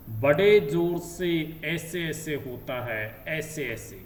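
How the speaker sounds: put-on slow, mildly whiny voice of a hurting boy; a touch of tearful complaint; close to tears. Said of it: "रुआसा सा होकर". (रुआँसा बच्चा, धीमी हल्की रोती आवाज़)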